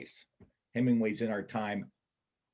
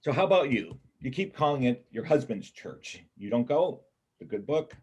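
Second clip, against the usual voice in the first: probing; 4 semitones higher, 6 dB louder than usual. Acted. Pressing her about church.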